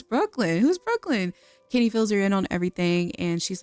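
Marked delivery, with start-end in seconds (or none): 0.0-1.3 imitating a taken-aback daughter, pitch jumping up on the question; mock surprise. Daughter questioning her mom about the party guest, mock surprised. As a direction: act out puzzled disbelief, lightly.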